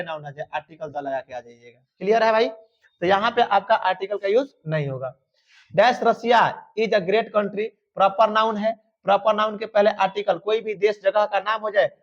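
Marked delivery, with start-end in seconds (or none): 5.8-7.7 very slow, every word spaced out; slow, deliberate classroom dictation; dictation pace. Shown as a demonstration. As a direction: read it out slowly for the class to copy. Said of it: "teacher dictating sentence".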